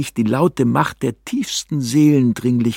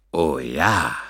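infernal voice; 7 semitones lower than usual. Pretend. Narrator playing the devil to scare the hermit, lower infernal voice. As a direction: lower voice from hell. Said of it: "in einem Tonfall, welcher wahrlich aus infernalischen Gefilden".

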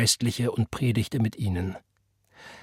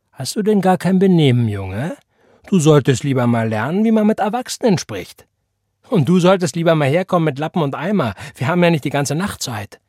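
mock scolding shout; 5 semitones higher, 6 dB louder than usual. A narrator's reading. Elisha scolding John.

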